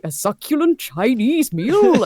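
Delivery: slow, laughing meme quote; quoting meme. Retold or imitated. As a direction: relish the famous line slowly. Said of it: "obsessed with that vi".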